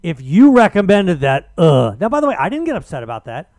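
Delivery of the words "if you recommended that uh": mocking sneer. Mocking a Twitter user's reply.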